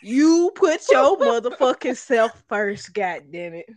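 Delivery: Samuel L. Jackson. Pretend. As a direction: growl it like a tough movie guy. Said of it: "Okay, Samuel L. Jackson".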